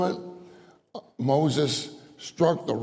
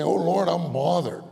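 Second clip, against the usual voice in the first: mock prayer; 4 semitones higher than usual.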